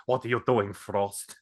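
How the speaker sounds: lightly imitated sinister Eastern European accent. Fan recalls a film's bad guy, mildly sinister Eastern European impression. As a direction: do a hint of a menacing Eastern European villain. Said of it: "that really sinister, like, Eastern European guy".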